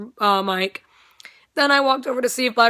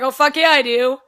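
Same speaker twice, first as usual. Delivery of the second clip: enthusiastic yes; 4 semitones higher, 6 dB louder than usual. Retold or imitated. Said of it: "And he's like".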